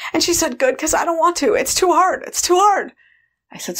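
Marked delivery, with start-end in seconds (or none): 0.6-2.9 high, overwhelmed plaint; tearful protest. Retold or imitated. Exhausted food controller giving up the job, plaintive. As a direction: pitch it up high like someone worn out and near tears. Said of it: "started to cry".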